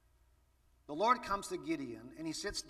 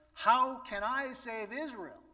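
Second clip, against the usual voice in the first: higher, slow, doubting question; Gideon doubting; 7 semitones higher, 5 dB louder than usual. Pretend. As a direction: ask it as a man who feels too small. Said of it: "when he says".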